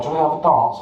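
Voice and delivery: woman asking to dance. Retold or imitated. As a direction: lift the pitch to mimic her invitation. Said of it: "So she's like".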